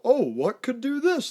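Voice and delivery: high-pitched, hammed-up wondering; mock wonder. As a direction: play the clueless crew, puzzled.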